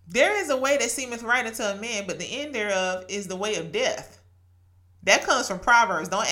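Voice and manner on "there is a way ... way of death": "There is a way" recited from memory in a steady verse cadence; scripture recited. Shown as a demonstration. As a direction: recite it like a verse known by heart. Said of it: "I'm mad I spit it like that".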